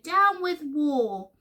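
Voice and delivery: high, drawn-out hoot of protest. A narrator's reading. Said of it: "And he hooted".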